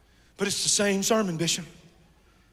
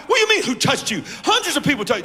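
incredulous; faster than usual. Acted. Disciples answer Jesus incredulously.

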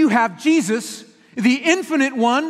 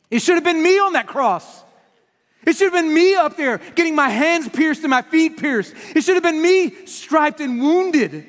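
impassioned preaching; 5 semitones higher than usual. Acted. Preacher to the congregation, cries out with rising passion. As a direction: cry out that it should have been you up there.

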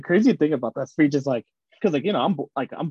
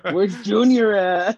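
Chicano dad voice; 5 semitones higher, 4 dB louder, slower than usual. Pretend. Mimics dad voice.

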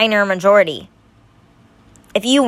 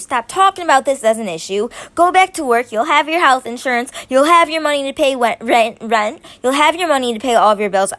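worked up; 4 semitones higher than usual. Real, not acted. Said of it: "I'm getting a little worked up".

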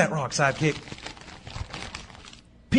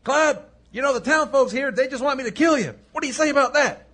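raised, higher calling voice; 4 semitones higher than usual. Acted. Solo relays the townsfolk's threat to Clyde, calling out. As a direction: call across to someone holed up.

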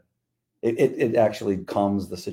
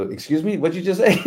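high-pitched, mock-baffled question; incredulous dispatcher; 9 semitones higher, 4 dB louder than usual. Dispatcher questioning officer's calm call, incredulous. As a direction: imitate a dispatcher in disbelief.

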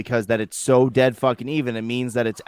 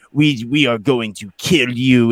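Vlad the Impaler vampire; slower than usual. Retold or imitated. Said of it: "he's talking very, like, Vlad the Impaler-esque vampire".

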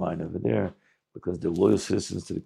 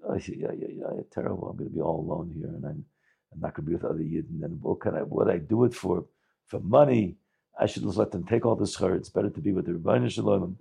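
mild crying lament; 3 semitones lower than usual. Acted. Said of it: "He starts crying".

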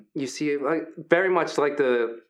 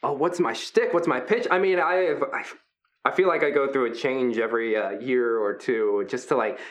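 friendly hulking Brutus. Acted. Big gentle wrestler Brutus welcoming the new fighters, upbeat. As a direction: play the big guy as sweet and encouraging.

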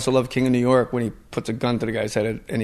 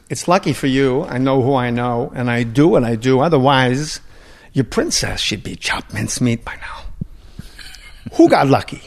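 Christopher Walken impression. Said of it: "I was mocking him".

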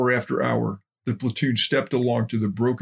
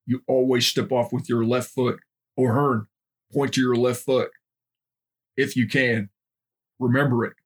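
stern drill sergeant barking orders; drill instructor. Acted. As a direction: bark it like a boot camp DI. Drill instructor teaching recruits.

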